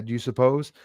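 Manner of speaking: ordinary talk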